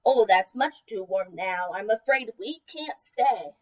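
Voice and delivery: lightly hammed-up regretful excuse; too-warm complaint. Pugtato tells Tweetroot the nest is too warm, low slow apologetic voice.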